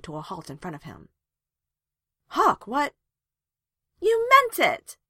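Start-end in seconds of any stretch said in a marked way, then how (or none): 2.3-2.9 louder, higher startled question; taken aback and alarmed. A narrator's reading. Startled man held up hands. 4.0-5.0 loud, high accusing shout; full-voiced, high-pitched outburst. A narrator's reading. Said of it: "she shouted".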